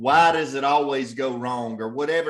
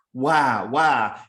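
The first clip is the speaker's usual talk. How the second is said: whining; 3 semitones lower, 3 dB louder than usual. Shown as a demonstration. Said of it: "it almost sounds like they're whining".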